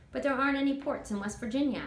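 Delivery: a hint of a small girl's voice; curious girl. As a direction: ask it like an eager kid. Child objects to Toot.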